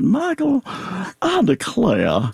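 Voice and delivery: very high, slow scolding exclamation; imitating Southern elders. Actor imitates people he has heard say it, high and slow. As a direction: stretch out Michael like a shocked auntie. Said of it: "people ... will say it like that".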